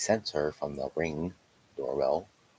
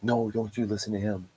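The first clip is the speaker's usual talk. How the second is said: imitated partner, higher and louder; raised-pitch mimicked countermand; retold sharp objection; 6 semitones higher, 6 dB louder than usual. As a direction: cut in loudly to overrule. Retold partner countermanding his order.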